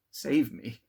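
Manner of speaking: desperate shout. A narrator's reading. Victor screams for help as the monster seems to seize him. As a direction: cry out for rescue. Terrified of the spectre.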